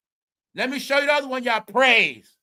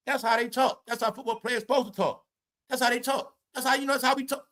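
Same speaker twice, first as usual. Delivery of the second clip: lightly mocking higher-pitched quote; imitating someone's excuse; 3 semitones higher than usual. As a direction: quote a defender in a raised voice. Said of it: "Somebody said".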